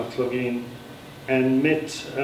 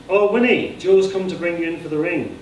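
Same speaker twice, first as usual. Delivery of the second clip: excited; 5 semitones higher, 3 dB louder than usual. A narrator's reading. Excited sister enters.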